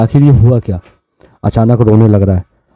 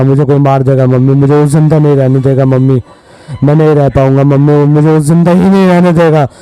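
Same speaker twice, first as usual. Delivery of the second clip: put-on higher, urgent voice of a scared boy; imitating a frightened child begging mummy; retold terrified pleading; 5 semitones higher than usual. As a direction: plead with mother that someone will kill you. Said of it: "बोलते बोलते उसकी आवाज़ें change हो रही थी".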